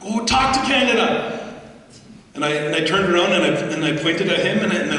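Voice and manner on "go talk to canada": high mock shout; imitating a furious executive yelling; retold yelling. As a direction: bark it out like an angry CEO. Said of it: "He started yelling at me".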